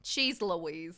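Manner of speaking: Minnesota-style Cheese Louise; northern accent. Pretend. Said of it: "in your northern accent".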